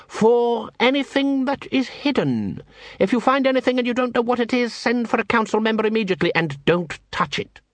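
urgent orders in a high voice; tense, high-voiced master giving orders; exacting guild master. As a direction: instruct urgently, pitched well up. Plays Cruces giving orders.

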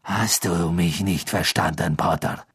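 low, slow contempt; Snape's cold menace. Acted. Snape blocking panicking Harry, slow and coldly contemptuous. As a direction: draw out a cold, low reprimand.

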